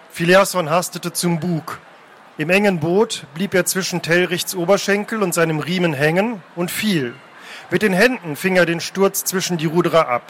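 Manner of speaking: measured, dramatic reading aloud; story narration. A narrator's reading. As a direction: narrate the sea chase with deliberate pauses. Reads a novel scene aloud.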